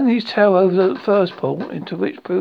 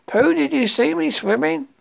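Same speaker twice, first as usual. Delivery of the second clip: high, eager small-animal voice; Roo's excitement; 8 semitones higher than usual. A narrator's reading. Roo boasting to Pooh after rescue, high eager squawk. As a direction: pipe it up high, fishing for praise.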